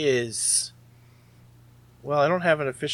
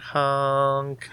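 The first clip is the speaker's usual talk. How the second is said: ordinary delivery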